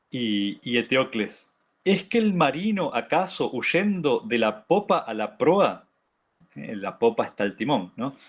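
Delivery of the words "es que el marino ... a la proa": raised, declaimed rhetorical question; dramatic text reading. Acted. Teacher reads Eteocles' question to the women, declaimed. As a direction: read it as a tragic hero's challenge.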